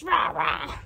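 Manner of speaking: imitated angry crow; crow caw. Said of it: "angry birds".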